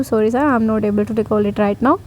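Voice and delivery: calm apology to the panel, spoken slowly; slow polite apology. Retold or imitated. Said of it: "मैं बहुत slow बोल रही थी".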